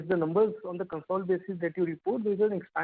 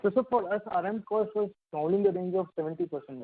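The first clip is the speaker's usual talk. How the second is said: garbled voice; 2 semitones higher than usual. Real, not acted. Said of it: "your voice is garbled".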